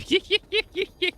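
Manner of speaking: sudden high-pitched giggle; high squeaky laugh. Real, not acted. Laughs after the bit.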